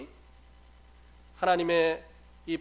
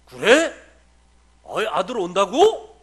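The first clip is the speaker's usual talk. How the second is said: loud, slow, delighted "really? my son's coming?"; father perks up at the phone call, voice suddenly big; father's voice lights up; 3 semitones higher, 12 dB louder, slower than usual. Retold or imitated. Old father hears his son is coming home, loud delighted voice. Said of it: "목소리가 달라지셔요".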